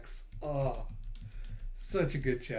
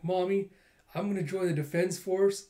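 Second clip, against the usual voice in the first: put-on serious little girl; 6 semitones higher than usual. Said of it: "with a serious little face".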